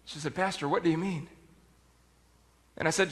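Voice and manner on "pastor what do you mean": low, softly voiced question; understated retelling of a puzzled reply. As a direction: ask your pastor quietly what that meant. Puzzled woman questions her pastor softly.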